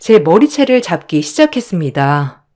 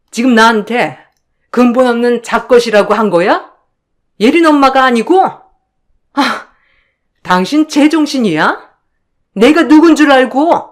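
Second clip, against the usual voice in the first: higher pitched, indignant yelling back; shrill outrage; 4 semitones higher than usual. Acted. Wife shrieking at her husband for insulting her. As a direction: shriek in disbelief at your husband.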